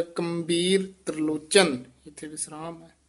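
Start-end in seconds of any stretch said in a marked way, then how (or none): 0.0-1.8 ਕੰਬੀਰ with the ਟਿੱਪੀ nasal sounded. Shown as a demonstration. Teacher points to the ਟਿੱਪੀ in ਕੰਬੀਰ and sounds it. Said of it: "ਉੱਤੇ ਟਿੱਪੀ ਲੱਗੀ ਹੋਈ ਹੈ".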